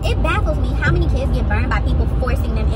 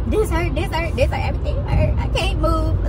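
put-on dramatic kid; 4 semitones higher than usual. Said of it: "the real dramatic ones".

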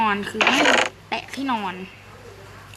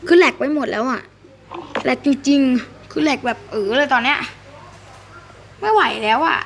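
louder, exasperated at the lag; real frustration; 2 semitones higher, 4 dB louder than usual. Real, not acted. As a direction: vent at the dying internet. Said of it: "เริ่มจะหัวร้อนกับเน็ตแล้วนะ". (หงุดหงิดเน็ตจริงๆ เสียงดังขึ้น)

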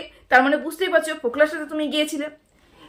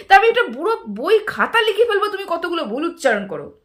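raised, heated voice demanding answers; indignant scolding; 5 semitones higher than usual. Real, not acted. Vlogger scolding a critic who mocked her friend, heated and raised. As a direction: tear into him for spreading nonsense.

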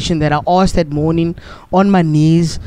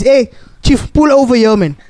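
higher, commanding call of a fed-up Pope; bossy Pope; 4 semitones higher than usual. Retold or imitated. The Pope ordering the Uber driver to pull over, higher and bossy. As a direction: order the driver out of the seat, pitched up.

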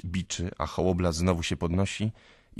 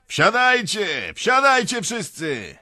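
put-on drunken peasant's bellow, high and drawn out; shouting; 10 dB louder, slower than usual. A narrator's reading. Young peasant calling the crowd onto his cart, shouting. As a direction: yell it long and loud to a whole crowd. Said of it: "krzyczy jeden z nich".

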